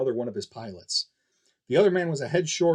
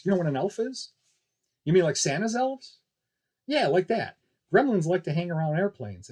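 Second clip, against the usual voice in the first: put-on a touch higher, gentle explaining to a child; lightly voiced Kiki, kindly; 5 semitones higher than usual. Female pilot telling a boy about gremlins, gently. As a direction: coax a curious kid along.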